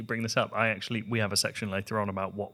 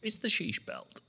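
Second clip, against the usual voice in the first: whispering; 6 semitones higher, 7 dB quieter than usual. Acted. Hushed joking aside.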